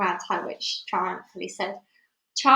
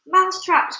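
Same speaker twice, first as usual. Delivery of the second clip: high, loud crowd echo; loud cry; 8 semitones higher, 7 dB louder than usual. A narrator's reading. Witches echo their leader, loud high cry. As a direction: exclaim it as an astonished chorus. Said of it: "cried the witches".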